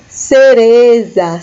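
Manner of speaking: Cereza said very slowly. Shown as a demonstration. Teacher introducing the word cereza to students. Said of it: "cereza é a nossa cereja".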